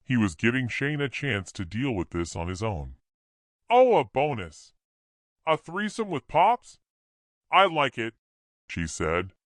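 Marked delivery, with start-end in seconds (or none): 3.7-8.2 high, loud, teasing temptress; seductive woman. A narrator's reading. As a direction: tease him with a loud purr.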